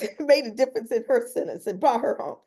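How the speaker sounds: made a difference said with a laugh; relieved laugh breaking into the words; emotional laugh carrying the line; laughing through tears. Real, not acted.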